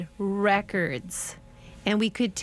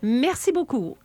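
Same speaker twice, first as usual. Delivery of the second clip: sheepish thanks; 6 semitones higher, 4 dB louder than usual. Retold or imitated. Retreating from the incomprehensible man.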